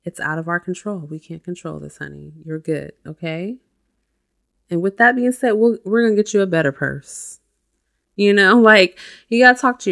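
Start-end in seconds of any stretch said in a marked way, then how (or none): 0.0-3.6 soft soothing mom. Shown as a demonstration. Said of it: "soothing herself like a mom".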